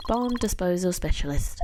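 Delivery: flat monotone robot. Acted. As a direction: speak like a text-to-speech machine. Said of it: "He sounds exactly like a robot".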